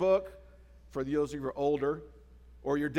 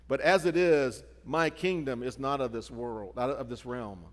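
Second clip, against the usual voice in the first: solemn scripture reading; 4 dB louder than usual. Shown as a demonstration. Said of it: "Jesus answered Pilate, saying".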